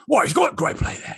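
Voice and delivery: half-hearted British soccer commentator; rough imitation of British commentary; bad British accent. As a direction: attempt a British accent and miss. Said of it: "I can't do the accent".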